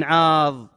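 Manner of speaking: "عاض" ending on a heavy emphatic dad; with the letter dad. Shown as a demonstration. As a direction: land hard on the dad of "عاض". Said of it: "بالضاد".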